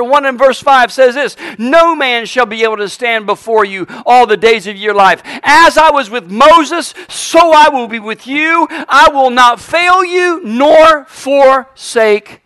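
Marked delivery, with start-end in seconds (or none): 1.6-12.4 loud, raised pulpit proclamation; preaching scripture. Acted. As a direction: proclaim the promise, slowing and drawing out the final words. Preaches scripture at full force.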